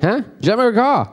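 mock Scottish, pitched high; high, hard-to-follow Scottish impersonation; Scottish accent. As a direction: imitate a Scotsman repeating himself to a baffled listener. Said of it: "a Scottish accent".

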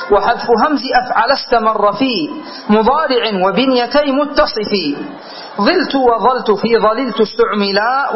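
measured reading of a didactic poem; verse recitation. Acted. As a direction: recite the grammar verse metrically, drawing out line ends. Reads out the verse.

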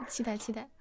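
soft whispered anticipation; hushed, excited little whisper. Real, not acted. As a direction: whisper it eagerly, under your breath. Host whispers eager anticipation.

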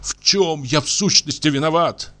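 trembling voice. A narrator's reading. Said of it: "сказал он дрожащим голосом".

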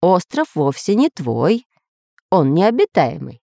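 unhurried, measured rebuttal; calm. Acted. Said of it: "спокойно ответил Семён Семёныч".

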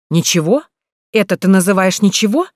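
«Ничего?» lifted into a loud rising question; incredulous question. Acted. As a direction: throw «ничего» back as a disbelieving query. Брат переспрашивает с упрёком. («Ничего?» громко, с восходящей интонацией недоверия)

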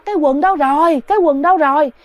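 possessed wife yelling in a panic; frantic yelling. Retold or imitated. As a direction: shout around looking for lost pants. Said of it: "la làng lên đó hả".

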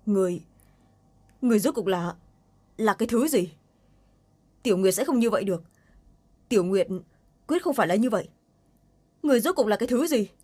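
rising disbelief and alarm; shocked. Acted. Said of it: "Giọng nói đầy sự kinh ngạc".

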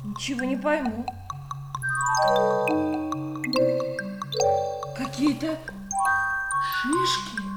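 hesitant, bewildered, with long gaps; baffled mother. Acted. Mother finding cones in the parcel, baffled.

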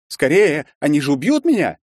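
high, loud frightened urging; panicked plea. Acted. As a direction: hurry him in terror. Призрак в панике торопит. (испуганная мольба)

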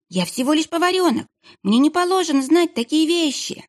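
put-on high, stammering child's voice; babbling scared boy. Frightened kitchen boy babbles to the monk, high.

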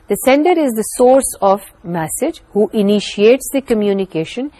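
reads the English definition aloud slowly; measured, careful textbook reading. Acted. Teacher reading a definition to students, slow and deliberate.

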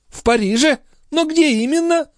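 high-pitched echoed question; impatient questioning. Acted. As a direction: press eagerly for the exact place. Countess presses for details.

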